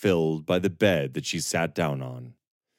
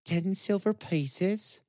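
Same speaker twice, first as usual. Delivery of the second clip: cold, slow price question; uninviting; 12 semitones higher, 4 dB quieter, slower than usual. A narrator's reading. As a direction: ask with no invitation at all. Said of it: "There was no invitation in her voice this time".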